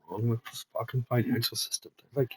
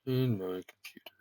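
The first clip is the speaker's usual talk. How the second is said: whispered to self; 2 semitones lower, 6 dB quieter than usual. Real, not acted. Muttering at computer.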